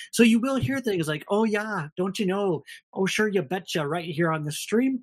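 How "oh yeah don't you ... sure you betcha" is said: hammed-up Minnesota accent, pitched a bit higher. Shown as a demonstration. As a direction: playfully exaggerate the Minnesota accent. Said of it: "I have a terrible Minnesota accent".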